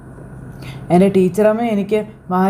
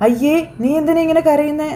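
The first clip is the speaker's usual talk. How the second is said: higher, fond chiding "why are you crying"; motherly teasing tease, voiced higher; teacher-mother coaxing; 7 semitones higher than usual. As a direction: coax a grown son like a mother. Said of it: "എന്നും ചോദിച്ചുകൊണ്ടിങ്ങനെ".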